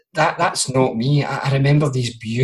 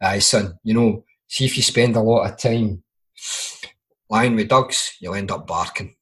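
put-on lower, dry old Glaswegian granda; imitating granda; 3 semitones lower than usual. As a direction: deliver it low and deadpan like a grandfather's jibe. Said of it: "the exact words he said was".

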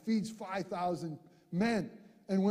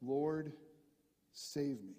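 mild cry for help; 5 semitones lower, 6 dB quieter, slower than usual. Acted. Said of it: "and he cried out".

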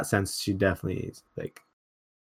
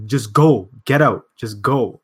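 louder, imitated motherly yell; mom yelling; 8 dB louder, slower than usual. Mom ordering her child to move out, imitated yell. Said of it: "She yells it".

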